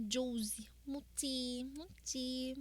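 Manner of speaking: soft breathy whisper of a name. Real, not acted.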